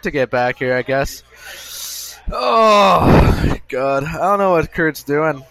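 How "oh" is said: long, loud, high-pitched groan; exasperated groan. Real, not acted. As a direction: let out a loud, drawn-out "oh". Waiting for lost co-host.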